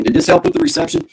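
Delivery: distorted robotic alien sound; like a voice modulator. Real, not acted. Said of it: "you sound like an alien".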